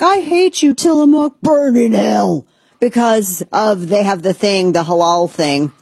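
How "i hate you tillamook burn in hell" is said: high, shrill-pitched furious rant; angry online commenter. Retold or imitated. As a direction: spit it out like an outraged troll. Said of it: "people are like".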